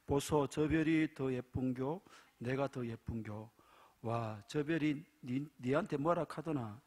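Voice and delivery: a hint of Gyeongsang dialect banter. Preacher telling a dialect joke, in Gyeongsang dialect. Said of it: "경상도 여자".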